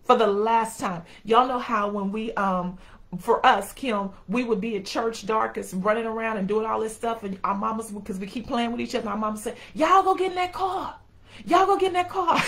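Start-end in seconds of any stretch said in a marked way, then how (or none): 0.0-1.0 louder stern repeat, pressing each word; final warning. Retold or imitated. Mama giving her kids a final warning, stern and loud. 9.7-12.4 high, loud, laughing mock yell; mama yelling. Mama at church yelling at the kids to get in the car, a loud mock yell.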